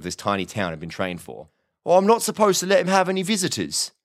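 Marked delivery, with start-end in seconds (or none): 1.8-3.9 high-pitched, apologetic officer; hesitant village policeman. A narrator's reading. Officer explains the rules to a late visitor, hesitant. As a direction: refuse timidly in a high character voice.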